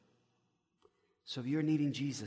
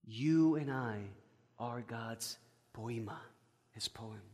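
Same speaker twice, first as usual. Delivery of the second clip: tender; 4 semitones lower, 4 dB quieter, slower than usual. Real, not acted. Tender preaching climax.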